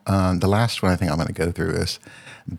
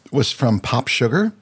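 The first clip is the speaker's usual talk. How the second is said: words pushed out through a burp; stifling a burp mid-sentence; 5 semitones higher than usual. Real, not acted. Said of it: "I'm burping, sorry".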